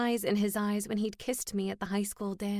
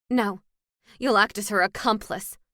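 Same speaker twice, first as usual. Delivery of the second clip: snapping; 4 dB louder than usual. Acted. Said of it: "I snapped".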